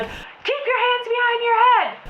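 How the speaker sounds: high, put-on officer order; police command voice. Police repeating the order to her, commanding. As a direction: shout it like a cop on a megaphone. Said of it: "they're like".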